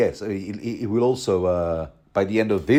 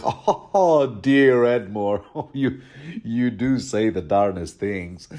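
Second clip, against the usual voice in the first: mock jolly Lothar; slower than usual.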